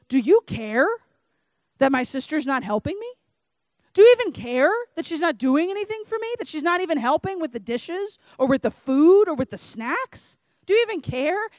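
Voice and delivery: a put-upon sister demanding to be noticed; sassy. Retold or imitated. Martha complaining to Jesus about her sister, sassy and exasperated. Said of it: "kinda sassy".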